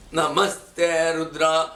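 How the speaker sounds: Namaste Rudra recited very slowly and deliberately; slow, careful teacher's recitation; teacher reciting. Shown as a demonstration. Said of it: "See properly".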